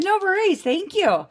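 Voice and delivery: bright sing-song phone manner; customer service voice. Retold or imitated. Her own phone voice.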